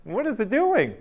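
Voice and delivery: high, loud panicked dad shout; re-enacted alarmed yell. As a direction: shout an alarmed warning, acting it out. Dad yells as raccoon nears daughter.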